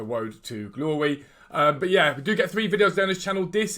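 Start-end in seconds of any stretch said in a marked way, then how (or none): 0.0-1.2 Road said as Woad, r as w; says w for r. Real, not acted. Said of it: "I can't pronounce my R's properly".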